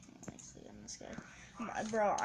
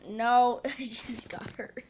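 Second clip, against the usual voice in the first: whispered laugh; 2 semitones higher, 10 dB louder than usual. Real, not acted.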